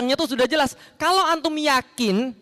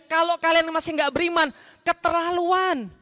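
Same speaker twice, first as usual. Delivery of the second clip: reproachful; 6 semitones higher than usual. Shown as a demonstration. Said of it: "Itu sindiran dari Allah".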